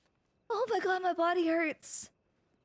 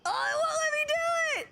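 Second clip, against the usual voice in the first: ordinary talk, nothing marked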